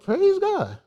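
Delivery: high, soft, amused praise; small praise. Retold or imitated. Telling how he thanked the lady for the glove, high soft praise. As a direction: say it softly in a high, playful voice. Tells his grateful reaction to gift.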